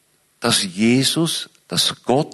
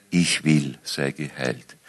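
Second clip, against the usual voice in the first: low, quiet, trembling voice; 8 semitones lower, 3 dB quieter, slower than usual. Shown as a demonstration. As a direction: speak it with a quivering voice, moved to tears. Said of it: "vielleicht mit zitternder Stimme".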